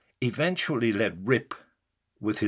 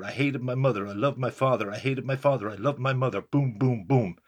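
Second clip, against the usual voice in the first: a mild mocking singsong, punching hated, loved and boom; lightly mock the list of parent complaints; mocking recital. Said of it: "His mocking lines".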